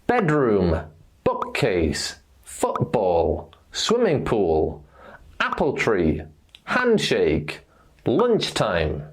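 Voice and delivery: BEDroom, BOOKcase, FOOTball, falling after the first noun; stress first noun. Shown as a demonstration. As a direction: hit "swimming", "apple", "hand", "lunch", let the second noun drop. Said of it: "we stress the first noun".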